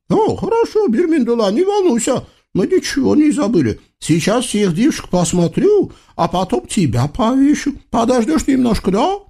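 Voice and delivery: high, singsong eastern tyrant voice; comic sultan. Acted. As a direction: play a pompous, childish sultan. Sultan mocking prisoner. (высокий певучий голос капризного султана)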